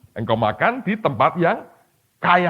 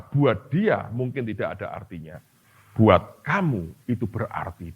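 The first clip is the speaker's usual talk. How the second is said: voice of God; 5 semitones lower, slower than usual. Retold or imitated. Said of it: "Tuhan berkata".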